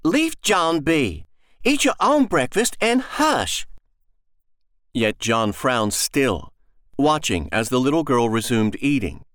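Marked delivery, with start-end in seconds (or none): 0.0-3.7 higher, slow tired mother's rebuke; scolding mother. Acted. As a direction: hush the child wearily.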